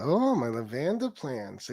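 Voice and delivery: "lavanda" drawn out slowly as la-VAN-da; mock a slow, soft "lavanda", stressed on VAN; mispronounced lavender. Host mimicking rival fussing over his plants, mispronouncing "lavanda". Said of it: "That's how my wife pronounces lavender".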